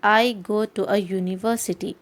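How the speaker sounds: very slow, each word spelled out for learners; slow example sentence. Shown as a demonstration. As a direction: read it out word by word like a teacher. (धीमा उदाहरण वाक्य, हर शब्द अलग)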